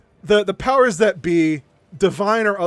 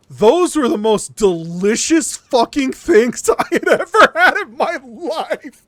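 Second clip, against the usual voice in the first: slow build to a high, loud, laughing rave; rapturous raving; 3 semitones higher, 4 dB louder, slower than usual. Retold or imitated. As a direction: hammer out each word, climbing higher with delight. Raving about lemon swabs.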